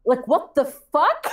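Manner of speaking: high, slow, whiny mock of her rival; mock dismay. Mocking the rival from Alberta, hammed-up whiny dismay. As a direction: ham up a stunned gasping whine. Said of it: "the fat bitch from Alberta was like".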